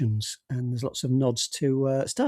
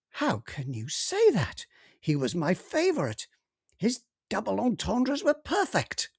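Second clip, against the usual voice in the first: slow, wounded alien voice; offended alien; 7 semitones higher, 3 dB quieter than usual. Acted. Rawgib offended about Friends.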